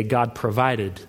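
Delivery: preacher points out "God provided"; stress on provided. Shown as a demonstration. Pastor to congregation, pressing on God provided. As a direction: lean on "God provided", falling. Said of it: "you hear that word again".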